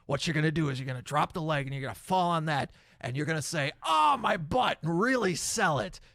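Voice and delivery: hammed-up boss coaching a performer; lightly voiced promoter selling a gag; Vince McMahon. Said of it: "that's my Vince McMahon impression".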